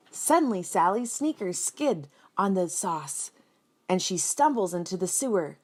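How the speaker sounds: lively storybook reading voice; animated picture-book narration; reading to children. A narrator's reading. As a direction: read it out like a teacher to kids.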